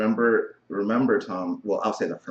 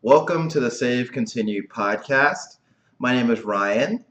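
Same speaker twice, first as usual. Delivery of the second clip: exaggerated cartoon intonation; 3 dB louder than usual. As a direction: overdo the welcome like a cartoon host. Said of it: "Why are you talking like that?".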